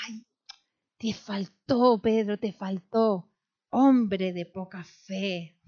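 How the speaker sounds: slow, tender chiding, drawn out; gentle rebuke. Acted. Jesus gently telling Peter his faith fell short, slow and tender. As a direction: sigh it out like a loving teacher. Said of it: "Pedro al menos tuvo algo de".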